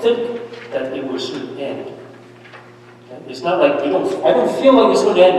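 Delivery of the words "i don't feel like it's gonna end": whiny complaint. Retold or imitated. Voicing a despairing believer.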